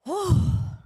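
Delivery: loud, heavy puff of breath; real exhausted sigh after exertion; winded exhale. Real, not acted. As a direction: blow out hard, worn out from jumping jacks. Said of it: "The jumping jacks took it out of me".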